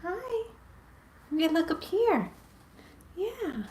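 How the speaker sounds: sweet high voice for a pet; pet talk. Real, not acted. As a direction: coo at your puppy in a sing-song. Cooing at her pets.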